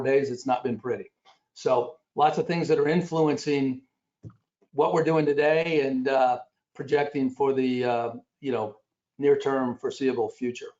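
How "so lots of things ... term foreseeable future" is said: talking around a mint; mouth full. Real, not acted. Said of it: "I apologize for the, uh, mint in my mouth".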